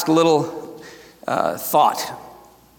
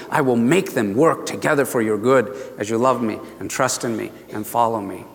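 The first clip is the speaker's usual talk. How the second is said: low reassurance, growing softer; tender voice of God; 6 semitones lower, 3 dB quieter than usual. Retold or imitated. Preacher voices God promising good, softly reassuring. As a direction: settle gently downward into a promise. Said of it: "And he says".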